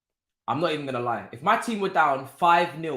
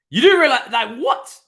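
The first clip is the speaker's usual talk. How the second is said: laughing; 9 semitones higher, 8 dB louder than usual. Real, not acted. Laughing at his team's stats.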